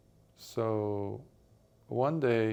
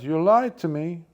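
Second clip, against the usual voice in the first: loud, higher, indignant shout; angry accusation; 6 semitones higher, 9 dB louder than usual. Acted. Poor friend accusing his rich friend of lying, shouting angrily. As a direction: hurl the accusation at him.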